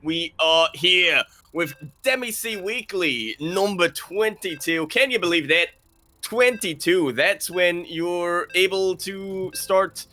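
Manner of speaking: drawn-out live show opening; announcer intro. Acted. Host welcoming viewers to the weekly tournament, announcer intro. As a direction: stretch it out like an event host.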